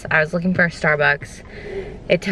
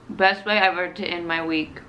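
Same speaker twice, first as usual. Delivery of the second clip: talking through a mouthful of food; mouth full; 3 dB quieter than usual. Real, not acted. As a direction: speak around a bite. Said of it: "talk with my mouth full".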